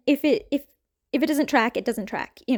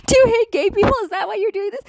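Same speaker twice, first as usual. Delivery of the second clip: much higher and louder, pressing the accusation after a laugh; louder incredulous repeat; 9 semitones higher, 3 dB louder, faster than usual. Real, not acted. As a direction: hit it harder the second time, outraged. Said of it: "made me go completely bonkers crazy".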